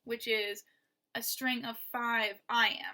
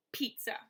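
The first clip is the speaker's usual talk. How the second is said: "pizza" with the weight on "piz"; stressed "piz", light unstressed "za"; stress on first syllable. Shown as a demonstration. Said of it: "The first syllable is stressed".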